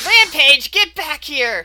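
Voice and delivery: very loud, booming villain yell. Narrating the game, voicing Orcus Claws yelling.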